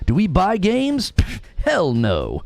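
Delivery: lightly voiced show host; podcast host voice. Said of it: "start a podcast called Waiting for Game Pass".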